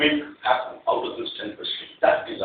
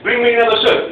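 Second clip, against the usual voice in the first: curt order; 9 semitones higher, 10 dB louder, faster than usual. Retold or imitated. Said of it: "I said".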